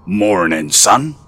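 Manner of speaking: a hint of a pleased father, lifting on "son"; light father voice with a grin; grinning father. A narrator's reading. Father greets his son at the door, lightly grinning. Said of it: "grinned father".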